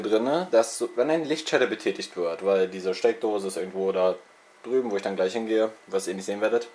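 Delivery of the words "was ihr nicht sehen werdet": ordinary talk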